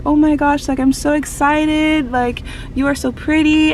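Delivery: excited fangirl retelling; retold gushing. Fan gushing at idol, retold.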